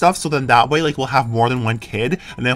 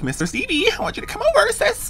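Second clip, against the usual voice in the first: mock flirty invite; 3 dB quieter than usual.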